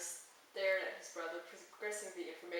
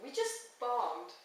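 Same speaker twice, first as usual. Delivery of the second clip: whining; 3 semitones higher, 6 dB louder, much slower than usual. Acted. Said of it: "he whined and then groaned".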